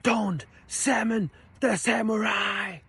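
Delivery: slow, high mock Ukrainian accent; imitating Ukrainian professor. Student mimics her Ukrainian professor, Ukrainian accent. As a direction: drag out each word in a thick Ukrainian accent. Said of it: "your teacher tells you".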